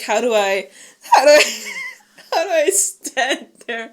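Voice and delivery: awkward hesitant mock. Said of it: "he was like".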